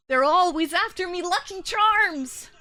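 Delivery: sing-song cereal ad leprechaun; Lucky Charms leprechaun. Retold or imitated.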